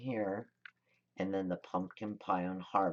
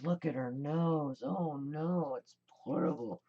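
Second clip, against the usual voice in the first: upset husband; 8 semitones higher than usual. Retold or imitated. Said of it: "he's all upset".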